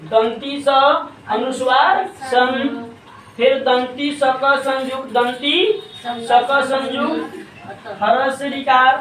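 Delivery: slow, letter by letter; spelling demonstration. Shown as a demonstration. Teacher spells out संस्कृत for the class, slow and deliberate. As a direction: sound out each part of संस्कृत deliberately. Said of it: "संस्कृत का उच्चारण शुद्ध शुद्ध कैसे".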